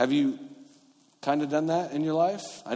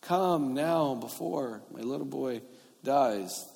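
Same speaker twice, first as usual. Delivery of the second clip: slow plea, pitched up then easing down; pleading; 2 semitones higher, slower than usual. Acted. Royal official begging Jesus for his dying boy, pleading. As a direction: beg slowly, stretching each word. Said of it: "the official pleaded".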